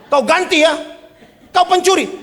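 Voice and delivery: high, loud accusing yell; shouting back. Retold or imitated. (pemilik rumah membalas berteriak)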